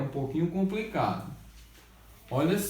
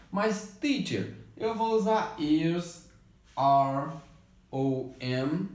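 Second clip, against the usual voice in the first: imitating a student; 2 semitones higher, slower than usual. Teacher mimics a confused student asking which form to use. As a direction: play the puzzled pupil asking the teacher.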